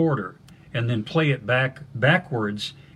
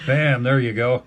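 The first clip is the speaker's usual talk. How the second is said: loud punchy bam; Red Green catchphrase; 2 semitones higher, 5 dB louder than usual. Retold or imitated. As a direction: slam the word out like a TV host. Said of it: "like they do on Red Green".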